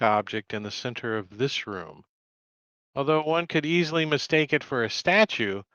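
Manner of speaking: game master setting the scene; scene narration. A narrator's reading. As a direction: read the boxed text aloud. GM reading scene description.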